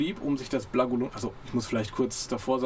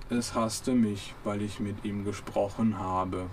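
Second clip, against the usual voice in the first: very slow, mildly mournful; a hint of a gloomy robot; slow understated robot gloom; 3 semitones lower, much slower than usual. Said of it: "dumpfes Gebrumme".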